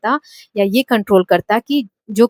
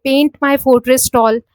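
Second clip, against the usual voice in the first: "Paint" stressed, voice falls through "tall"; slow, stress "Paint" and let the pitch drop to "tall"; falling tone; 2 semitones higher, 4 dB louder, much slower than usual. Shown as a demonstration. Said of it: "fall हो रही है हमारी आवाज last में जाते जाते".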